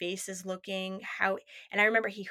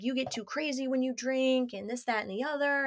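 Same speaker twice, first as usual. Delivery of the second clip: put-on nagging boyfriend; 4 semitones higher than usual. Retold boyfriend nagging her.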